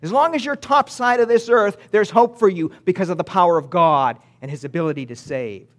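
lightly voiced southern preacher; southern twang. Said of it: "in his southern twangy voice".

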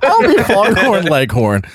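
high, slow cartoon rooster voice; Foghorn Leghorn. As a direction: drawl it like a blustery cartoon rooster.

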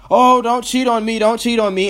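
sneering imitation of someone begging not to be cheated on; whiny mock plea. Mocking people who plead.

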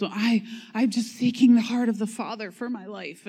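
a hint of a sugary churchgoer; lightly mock the overly spiritual believer; mild mock of a sappy seeker's voice; sappy pious voice. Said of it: "it's sappy and it's spiritual".

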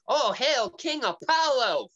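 high, slow ceremonial hail; mock royal herald. Imitating a woman who introduces the new king, high mock fanfare. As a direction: draw it out like a fawning courtier. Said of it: "some chick being all like".

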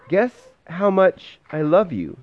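a small bunny asking eagerly; little hare's voice. A narrator's reading. Parent reading to baby, voicing the little hare. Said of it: "he said".

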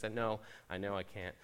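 soft, low tempter, lightly voiced; hushed voice of the ice cream; tempting ice cream voice. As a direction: coax him like a sly temptation.

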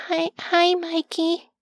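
nervous, high, halting stammer; timid little voice, faltering hello; shaky. Acted. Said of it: "His voice was so shaky".

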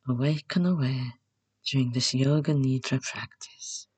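gently spoken intention, in measured phrases; gentle. Shown as a demonstration. Meditation guide modelling an intention to stay awake, said gently. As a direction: say it gently, as if to yourself. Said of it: "gently to yourself".

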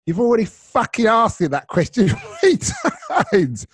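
high, loud, drawn-out telling-off; exasperated mock shout. Passenger scolds Steve over the repeated question, exasperated mock shout. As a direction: shout it as a fed-up mate, laughing through it. Passenger snaps at repetitive mate.

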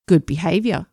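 a mocking sneer at the words. A narrator's reading. Brian mocks the girl about detention, sneering. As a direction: sneer it with contempt. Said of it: "Brian sneered".

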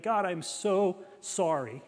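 acted tearful apology, lightly pleading; retold weeping. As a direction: plead for forgiveness, mildly anguished. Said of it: "uncontrollably weeping".

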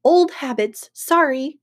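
mild yell. Acted. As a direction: call it upward, a half-hearted apology. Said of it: "he looked at the sky and yelled".

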